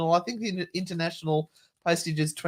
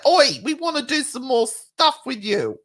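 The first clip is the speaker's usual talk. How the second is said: slightly raised, cheeky hail; imitated calling-out; 4 semitones higher, 3 dB louder than usual. Hailing friends home from New Zealand, cheeky call. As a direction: hail your mates playfully.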